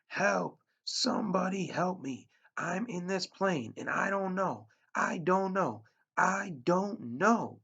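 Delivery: high, loud terrified screams for help; frantic yelling, breaking down on the last words; panicked screaming. Acted. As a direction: scream into the mic in sheer panic. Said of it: "he began to scream into the microphone".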